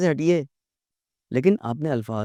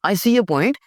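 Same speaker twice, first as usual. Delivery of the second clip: polite whisper; 6 semitones higher, much slower than usual. Shown as a demonstration. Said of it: "polite बात".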